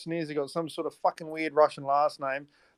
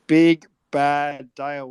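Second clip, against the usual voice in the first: greeting call; 2 semitones lower, 7 dB louder, much slower than usual. Real, not acted. Greeting newcomer.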